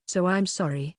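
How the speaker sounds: lightly lilting apology; a hint of sing-song. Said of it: "in a sing-song voice".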